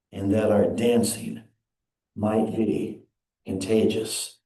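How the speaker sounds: slow, reverent reading of a poem. Acted. Preacher reading a Hafez poem aloud to the congregation, slow and reverent. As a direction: let the prayer unfold slowly.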